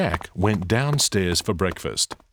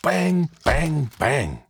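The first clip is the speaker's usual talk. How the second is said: put-on higher boy's voice chanting the bangs; boy imitating bangs; 7 semitones higher, slower than usual. Jack mimics the banging to himself, playful. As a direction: copy the noise like a kid.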